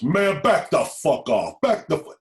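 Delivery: high, loud order to back off; acted commanding shout. Gang member ordering a crowd off a boy, commanding shout. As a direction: imitate a man forcefully shouting a crowd back.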